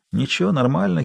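sour. A narrator's reading. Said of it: "кисло сказал Никита".

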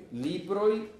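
teacher stressing Libroi for the class; emphatic plural form. Shown as a demonstration. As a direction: lift Libroi to show the plural ending. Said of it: "Libroi, libros".

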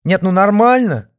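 loud, high sarcastic indignation; indignant. A narrator's reading. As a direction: scoff in outrage. Dacha woman indignant.

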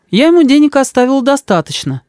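высокий, ласковый голос матери; мама заступается за сына. A narrator's reading. (голос мамы, выше)

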